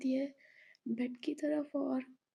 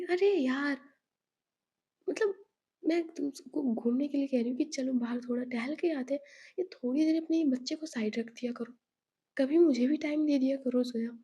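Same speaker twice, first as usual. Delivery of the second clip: louder, fast, exasperated pleading; exasperated plea; 4 dB louder, faster than usual. Acted. Kashvi complaining to Zoya, loud and exasperated. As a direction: sulk loudly at a friend who ignores you. Friend pleading loudly for attention.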